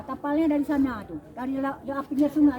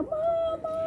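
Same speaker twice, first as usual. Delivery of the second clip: put-on child's cry. Child cries out behind her.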